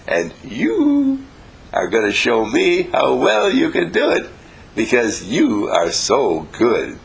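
teacher praising a pupil, high and eager; encouraging teacher. Shown as a demonstration. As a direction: lift the student up with delight. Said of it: "But you say".

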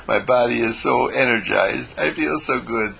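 light bright delight; happy glow. Shown as a demonstration. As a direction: savour the good feeling.

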